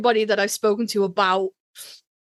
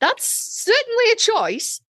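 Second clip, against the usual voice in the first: wry mock politeness; 13 semitones higher than usual. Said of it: "you can kind of go".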